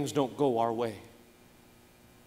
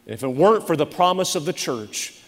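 earnest prayer voice. Acted. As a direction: pray it earnestly. Closing prayer.

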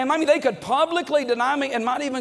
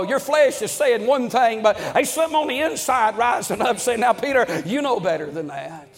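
fervent preaching; 2 semitones higher than usual. Acted. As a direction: raise the voice and drive the point home to the church. Preaching builds up.

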